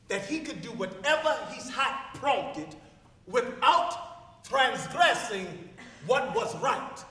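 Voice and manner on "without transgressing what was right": slow, weighty quote. Acted. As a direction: lean on each word slowly.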